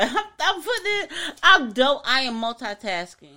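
tipsy, giggly rambling; laughing through tipsy words. Real, not acted. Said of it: "Lay off of the Casamigo berries".

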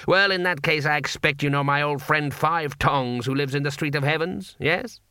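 lightly voiced vendor laying a trap; testing vendor. Vendor tests the stranger.

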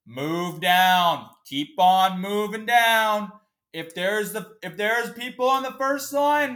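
condescending guard. Retold or imitated. Imitating the airport security guard ordering travellers, loud high mockery. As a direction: lord it over the queue, slow and smug. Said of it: "So condescending and so, like, dickish".

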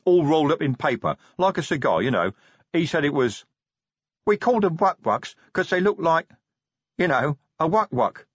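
high, eager troll voice with a sheepish edge; embarrassed troll Brick. Acted. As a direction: fumble for words like a simple troll.

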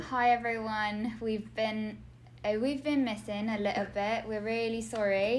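mock British apology; British accent. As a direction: put on a British accent to sell it. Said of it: "I have to be British".

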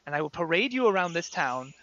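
a calm, cold threat; a hint of a menacing father; threatening father. Father threatens daughter's companion.

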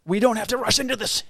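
overly soothing, mocking it; mock soft talker. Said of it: "You know, not like that".

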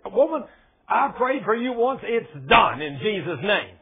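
slow, emphatic scolding; half-acted firm telling-off; mock stern rebuke. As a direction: lay down the law to your wife. Rebuking his wife, retold.

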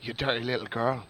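James Joyce's letter in a put-on accent; Southern-style accent. Reading Joyce's letter to Nora, put-on Southern-style accent. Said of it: "you can just do the Southern".

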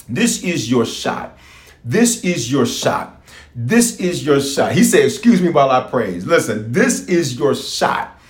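fervent preacher exhorting the crowd; preaching. Acted. Preacher urging the online church to praise. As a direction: preach it to the congregation with fire.

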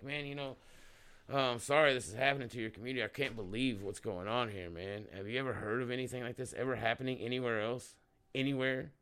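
soft, friendly sympathy; friendly sympathetic. Shown as a demonstration. Talking to rural locals about the spill, soft sympathetic tone. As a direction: talk to them gently, like a neighbour. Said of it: "You gotta just talk to 'em like".

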